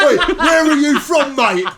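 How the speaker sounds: mock racist bloke. Mock xenophobic bloke, laughing.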